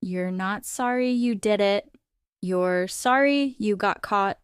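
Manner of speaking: dismissive. Acted. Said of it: "I rolled my eyes".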